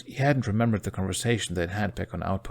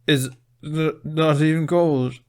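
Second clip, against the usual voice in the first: slow, high, teeth chattering; 8 semitones higher, 7 dB louder, slower than usual. A narrator's reading. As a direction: shiver the words out. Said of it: "through violently clattering teeth".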